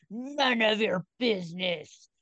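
lightly put-on possessed-kid voice, drawn out; mock a kid playing possessed, slowly; kid's demon impression. Podcaster mimicking the supposedly possessed boy, lightly put-on demon voice. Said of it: "sounds like a kid who's doing a best impression".

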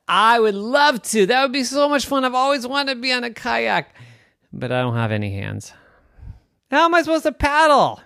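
squeaky excited creature voice; high eager walrus. Acted. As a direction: gush it, high and loud.

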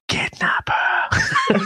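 can barely get it out for giggling; laughing. Real, not acted. Joke punchline through laughter.

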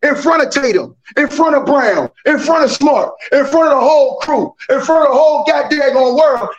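building rant, each line pushed harder. Real, not acted. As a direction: hammer every "in front of". Heated sports debate rant.

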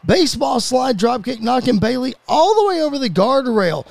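lively wrestling commentary, rising on big moves; play-by-play. Acted. Commentator calling a women's wrestling match, play-by-play. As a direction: call the action move by move.

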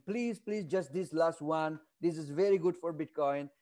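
a mild retold plea, not shouted; mock screamed plea. Speaker imitates someone begging for one last Bitcoin change, mild mock plea. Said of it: "And somebody screaming".

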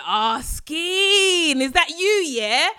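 lightly hammed-up slang greeting; greeting a friend. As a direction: call out to her like old times. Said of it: "And I said".

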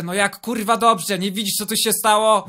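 father yelling at the guard after the crash; angry outburst. Acted. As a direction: bark it out with dobrze falling hard.

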